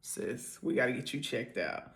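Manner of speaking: breathy whispered aside; hushed private aside. Real, not acted. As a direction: lean in and whisper it.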